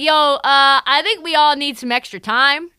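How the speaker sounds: a player begging for a timeout; hammed-up anxious timeout plea; mock Lowry voice.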